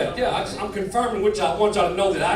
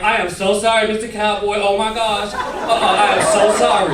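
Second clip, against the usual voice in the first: lightly camp, louder apology; a camp, over-the-top apology; acting gay; 2 semitones higher, 6 dB louder than usual. Scared man apologizing to cowboy, camp affectation. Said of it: "started acting like I was gay".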